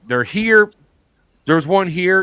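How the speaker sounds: retold yell, pitched well up; imitated yell. Brother warning that creatures have come, imitated yell. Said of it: "he just yelled".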